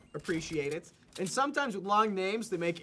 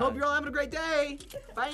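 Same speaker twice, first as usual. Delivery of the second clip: tough voice; 7 semitones higher than usual. Shown as a demonstration. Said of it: "the voice doesn't really work for the end".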